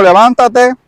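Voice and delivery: the Lord commands Saulo to get up, loud; commanding voice of the Lord. Acted. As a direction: order him to rise. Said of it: "y el Señor le dijo".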